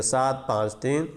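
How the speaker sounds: सात पाँच तीन said as three separate digits; teacher repeats सात पाँच तीन one digit at a time. Shown as a demonstration. Teacher reminding students how to read it, digit by digit. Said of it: "ऐसे पढ़ेंगे".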